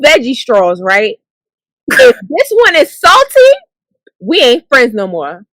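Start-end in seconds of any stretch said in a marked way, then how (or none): 1.9-5.5 mock dramatic. Mocking the watermelon test.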